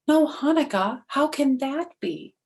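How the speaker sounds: high, amazed cry of no Hanukkah; shocked disbelief. Acted. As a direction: sound stunned, the news can't be true. Herschel shocked at villagers.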